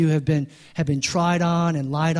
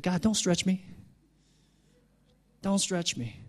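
scared plea; 3 semitones higher, 7 dB quieter than usual. Retold or imitated. Imitating scared believers' plea.

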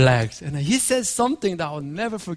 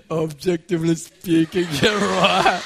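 mock-serious then laughing; teasing with a laugh; slower than usual. Husband teasing his wife about her father's words, laughing.

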